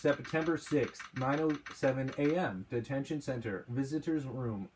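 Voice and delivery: slow, toned-down robot voice. Acted. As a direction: read it flat like a robot. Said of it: "tone it down and make it more of a robot".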